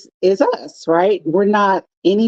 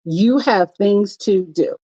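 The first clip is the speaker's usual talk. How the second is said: slow firm push; slower than usual. Retold or imitated. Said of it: "It's like".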